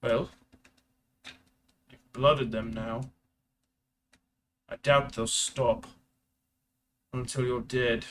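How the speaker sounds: slow, lightly voiced grave commander; a hint of a weary officer warning of danger. Commander gravely tells the hunted nephew he's marked.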